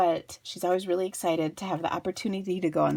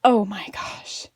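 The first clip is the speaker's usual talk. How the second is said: whispered disgust; slower than usual. Real, not acted. Disgusted aside about poo.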